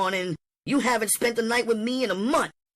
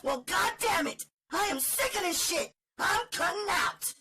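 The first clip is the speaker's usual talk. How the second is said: much higher, fast woman's voice, furious and fed up; spat-out defiance. Acted. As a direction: fling the challenge right at him. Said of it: "she spat out her invitation".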